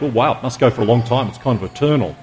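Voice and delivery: quick, offhand mock wonder; mock naive musing. Preacher mocking a shallow view of eternity, quick and offhand. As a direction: toss it off like a shallow idea. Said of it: "eternal life isn't just like".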